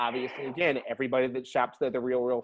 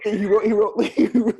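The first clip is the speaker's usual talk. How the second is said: laughing; 7 semitones higher, 8 dB louder than usual. Real, not acted. Laughing while telling dad story.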